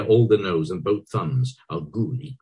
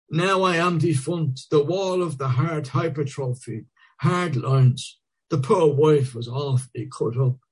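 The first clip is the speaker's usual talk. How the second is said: earnest; 8 semitones higher than usual. A narrator's reading.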